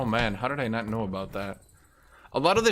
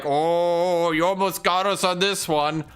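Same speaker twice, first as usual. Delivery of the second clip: mock orc; 5 semitones higher, 3 dB louder than usual. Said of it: "orcs are like".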